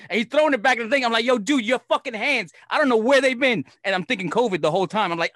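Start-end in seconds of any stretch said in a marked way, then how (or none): 1.3-3.7 grossed-out protest. Retold or imitated. Disgusted at his bare hands.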